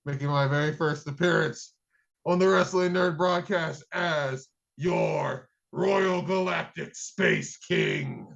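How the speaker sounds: lightly voiced space king; a hint of a grand alien ruler. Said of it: "Hear ye".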